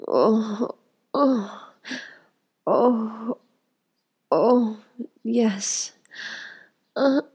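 drawn-out, pleasured moans; short gasps and moans of pleasure; passionate moaning. Acted. Intimate scene between lovers.

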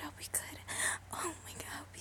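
I'll be good almost silent; barely audible whisper. Acted. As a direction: breathe I'll be good under your breath. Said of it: "repeated whispered".

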